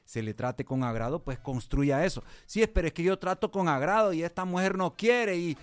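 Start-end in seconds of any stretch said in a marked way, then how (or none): 2.5-5.6 complaining husband. Pretend. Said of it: "voicing a complaining husband".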